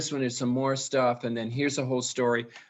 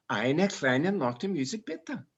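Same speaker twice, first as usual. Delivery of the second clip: put-on German accent. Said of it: "do you hear all those different intonations".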